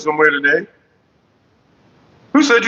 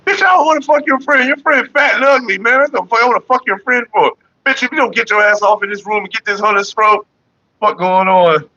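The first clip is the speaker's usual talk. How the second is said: indignant rant; 7 semitones higher than usual. Retold or imitated. To the woman about her friend, a high outraged rant. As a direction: tell her off, fed up.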